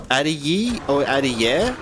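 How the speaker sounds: saying the name two ways, Adiye versus Adiye; weighing "Adiye" against "Adiye", slowly; pronunciation check. Shown as a demonstration. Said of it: "Am I saying that right as well?".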